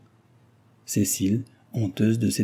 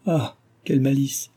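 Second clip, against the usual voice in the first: forced laugh; 5 semitones higher than usual. Acted. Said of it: "s'écria-t-il avec un rire forcé".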